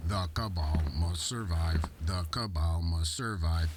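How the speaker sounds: looping robot chant; stuck robot repeating its line; glitching robot. Acted. Malfunctioning looped robot.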